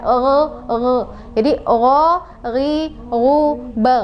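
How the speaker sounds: guttural oh; upper throat gho. Shown as a demonstration. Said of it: "di atas tenggorokan".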